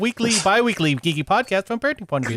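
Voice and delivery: upbeat announcer intro; radio host voice. Shown as a demonstration. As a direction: open the show like a radio host. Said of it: "in my favorite radio voice".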